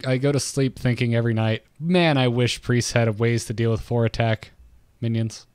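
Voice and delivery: mock-earnest wish, understated; deadpan sarcasm posing as a heartfelt complaint; sarcastic. Real, not acted. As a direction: pretend to wish for it sincerely. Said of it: "I'm being sarcastic, by the way".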